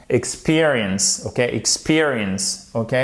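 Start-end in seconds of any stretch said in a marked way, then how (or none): 0.1-1.2 experience, said slowly syllable by syllable; slow pronunciation demo. Shown as a demonstration. 1.4-2.7 experience, said slowly syllable by syllable; slow pronunciation demo. Shown as a demonstration.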